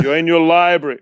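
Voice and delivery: lightly imitated German accent, a little firmer. Crew telling the actor where he is, light German accent. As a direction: give the order with a touch of German accent. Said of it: "with this German accent".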